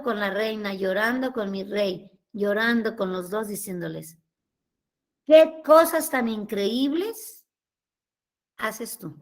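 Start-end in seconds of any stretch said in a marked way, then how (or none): 5.2-9.2 very slow, drawn-out marvelling; retold awed prayer. Woman praying to her king and queen after mass, in awe.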